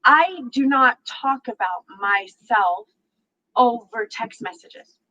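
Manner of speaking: slow, deliberate mock of his prim line; lightly mimicked stiff man; pompous guy. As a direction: read it out slowly like a prig. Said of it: "you know what he says to me".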